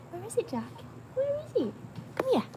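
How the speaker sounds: high sing-song calling; calling the dog. Real, not acted. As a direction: call the dog to come over.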